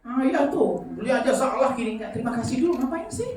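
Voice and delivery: loud, high grumbling complaint; annoyed husband whining about the purchase; irritated husband. Retold or imitated. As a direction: gripe like an ungrateful spouse.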